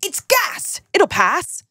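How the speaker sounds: high, deadpan grandma diagnosis; a light Cockney granny verdict. Retold or imitated. Grandma dismissing the girl's question. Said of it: "she upgraded her diagnosis to".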